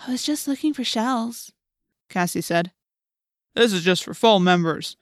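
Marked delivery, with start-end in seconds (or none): 0.1-1.5 higher, innocent excuse; small, light voice playing innocent; meek girl. A narrator's reading. Cassie making an excuse to the policeman, meek. 3.5-5.0 gruff, officious voice; gruff policeman. A narrator's reading. Policeman warning Cassie off the meeting, gruff. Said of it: "the policeman said gruffly".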